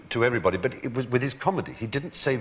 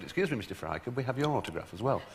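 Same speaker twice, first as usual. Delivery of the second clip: soft, polite request; hushed, deferential approach; mock deference; 6 dB quieter, faster than usual. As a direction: imitate a fan asking meekly and respectfully. Lads turn deferential to the speaker.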